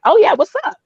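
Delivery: imitated eager hello; mock come-on. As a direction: play at being interested, hammed up. Acts out how it looked, flirting.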